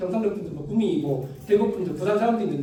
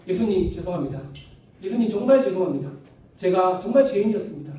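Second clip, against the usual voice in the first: repentant prayer; 2 semitones higher than usual. Pretend.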